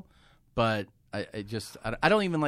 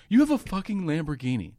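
stunned; 6 semitones higher, 5 dB louder than usual. Retold or imitated. Friend stunned by the Lamborghini.

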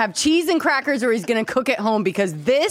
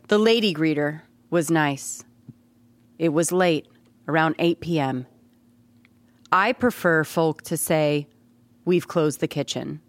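lower, measured haiku recital; understated poetry-reading voice; deadpan poem reading; 5 semitones lower than usual. Acted. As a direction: recite it solemnly with pauses between lines. Deadpan haiku reading, starting over.

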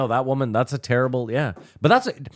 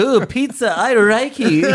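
higher, lilting mock Asian accent with no L sounds; 7 semitones higher, 3 dB louder, slower than usual. Mocking Kathy's new accent to friends, in a lightly pitched-up Asian accent. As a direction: parody Kathy's Asian accent, swapping her L's. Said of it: "doesn't pronounce her L's".

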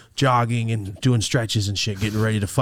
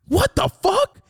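shocked disbelief; 4 dB louder, slower than usual. Retold or imitated. Shocked inner reaction to punch.

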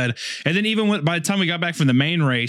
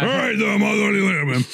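annoyed texting voice; 5 semitones higher than usual. Retold or imitated. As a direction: shout it like an annoyed buddy. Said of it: "what I sound like in text form".

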